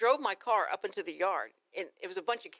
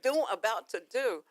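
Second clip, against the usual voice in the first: put-on puzzled kids; 2 semitones higher, much slower than usual. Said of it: "they are like".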